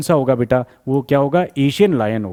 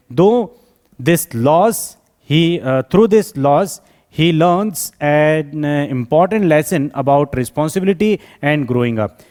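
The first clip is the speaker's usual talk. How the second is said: slow read-out with pauses between phrases; slow dictation; much slower than usual. Acted. Teacher reading the poem's lesson to students, slow dictation. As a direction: dictate it deliberately, restarting as needed. Reads summary aloud slowly.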